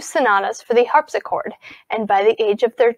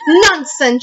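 sharp, louder angry retort; snapped; 3 semitones higher, 7 dB louder than usual. Acted. Queen of the Night rejects the bird catcher's claim, angry snap. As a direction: cut him off with scorn. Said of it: "she snapped".

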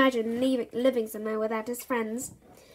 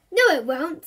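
louder, sullen scowl; 3 semitones higher, 7 dB louder than usual. A narrator's reading. Bertie scowls at his sister. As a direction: snap it back crossly. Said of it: "scowled Bertie".

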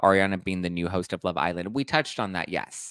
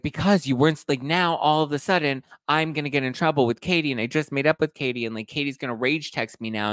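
higher, exasperated mock tirade easing off; retold anger; 5 semitones higher than usual. Retelling why she is mad at him, exasperated. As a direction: complain in acted-out exasperation, settling as you go. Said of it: "Why are you getting so mad at me".

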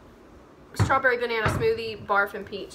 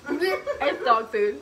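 laughing; much slower than usual. Real, not acted. Reacting to dog food flavour.

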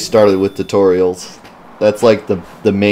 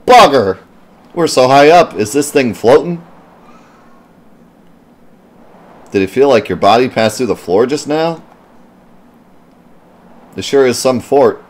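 mock British; 5 semitones higher, 3 dB louder than usual. Voicing character in British accent.

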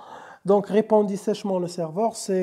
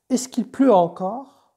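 slow question with a hint of bitterness; bitter question; 3 semitones higher, 4 dB louder than usual. Teacher reading a man asking about the rain, mildly bitter. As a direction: ask it slowly, lightly acted resentment. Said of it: "demanda-t-il avec amertume".

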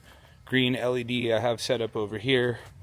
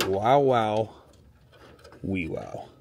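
amazed; 6 dB louder, much slower than usual. Real, not acted. Amazed at the bright new light.

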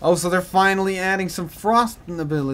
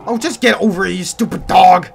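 loud, high frantic yelling; yelling at the useless companion; panicked shouting; 8 semitones higher, 7 dB louder than usual. Real, not acted. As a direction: shout for help in real panic. Gamer panicking, calling for wolves.

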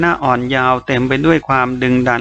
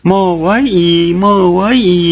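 higher, louder haunting call; wailing call; 5 semitones higher, 4 dB louder than usual. A narrator's reading. A voice in the head calling to its victim, wailing. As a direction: call the name out in a drawn wail. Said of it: "ตะโกนด้วยเสียงโหยหวน".

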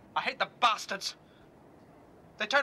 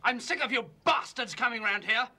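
rising outrage, pitch climbing higher; indignant rant; 6 semitones higher than usual. Acted. Writer berating the policeman over his towed car, indignant rant. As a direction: berate the copper, building to a high sarcastic peak.

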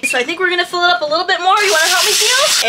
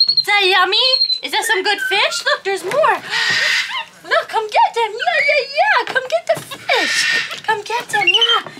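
cooing pet talk; 8 semitones higher than usual. Real, not acted. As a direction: coax the monkey to grab more fish. Cooing to monkey eating fish.

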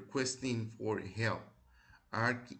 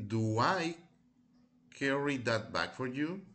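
model pronunciation. Shown as a demonstration.

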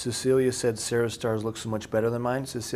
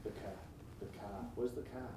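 Boston accent; 3 semitones lower, 21 dB quieter, faster than usual. Shown as a demonstration. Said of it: "except maybe the car part".

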